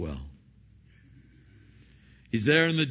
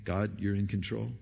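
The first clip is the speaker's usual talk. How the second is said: content trust; 2 semitones lower than usual. Pretend. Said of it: "Paul's saying".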